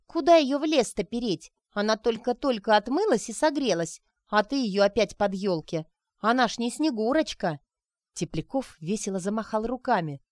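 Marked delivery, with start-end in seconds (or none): 0.1-7.6 high, loud indignant scolding. Acted. Sonechka scolding Grisha for his forest plan. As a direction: tell him off sharply.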